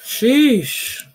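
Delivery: high, drawn-out sheesh; stretched-out sheesh, rising high then falling; stunned reaction. Real, not acted. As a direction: let out a long, high exclamation of shock. Reacting as the scary story ends.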